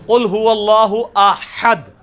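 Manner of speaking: قل هو اللہ احد recited very slowly with throaty ha; slow recitation. Shown as a demonstration. Teacher reciting Quran slowly to show correct ha. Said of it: "احد نہیں ہے".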